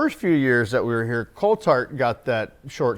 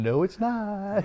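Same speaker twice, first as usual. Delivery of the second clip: flat retort; 7 semitones higher, 6 dB quieter, much slower than usual. Retold or imitated. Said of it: "laughing at him going".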